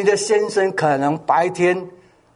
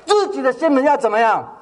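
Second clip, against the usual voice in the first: asked again, quicker and brighter with a laugh; livelier, faster call to the congregation; 5 semitones higher, faster than usual. Shown as a demonstration. Preacher repeats his question to the congregation, quicker and livelier. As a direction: press them to shout the answer. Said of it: "大声一点".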